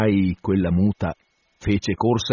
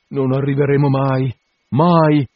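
gemito; 4 semitones higher, 4 dB louder than usual. A narrator's reading. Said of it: "gemeva il signor Toogood".

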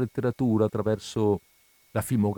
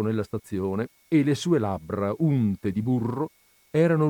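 scandire il racconto con pause espressive; narrazione di racconto; 3 semitones higher than usual. A narrator's reading. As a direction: lettura animata ad alta voce. Legge il racconto ad alta voce. (narrazione espressiva di un racconto)

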